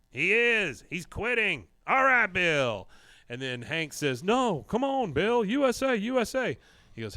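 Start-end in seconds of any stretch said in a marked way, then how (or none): 0.1-2.9 high, loud excited outburst; pitched-up retold excitement; acted excitement. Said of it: "Dale gets a little excited". 4.2-6.6 high, loud rallying cry; pitched-up fan pleading; mock cheering. Retold Hank urging Bill on.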